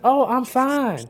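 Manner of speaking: high, drawn-out southern woman's reply; southern accent. Retold or imitated. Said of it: "a little southern accent from Terre Haute".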